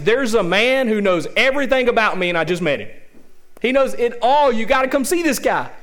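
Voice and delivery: mildly hammed-up excited announcement; excited proclamation. Preacher voices the woman at the well telling town, excited. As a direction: spread amazing news to everyone.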